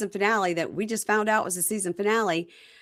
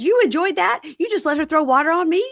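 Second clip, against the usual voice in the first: much higher, louder mock outrage; retold indignant disbelief; 10 semitones higher, 6 dB louder than usual. Demond challenging Gigi over the water, retold in indignant disbelief. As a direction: throw it back as an outraged question.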